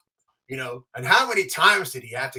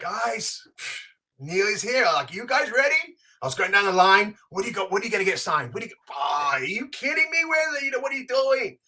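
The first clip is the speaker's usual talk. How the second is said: giddy excitement; 5 semitones higher than usual. Retold or imitated. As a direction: voice climbing higher and higher, bursting out. Excited greeting down the signing line.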